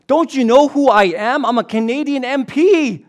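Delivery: high, loud indignant put-on voice; pompous MP. The well-dressed man telling the robber who he is, pompous. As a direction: play the self-important politician. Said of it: "the well-dressed man replies".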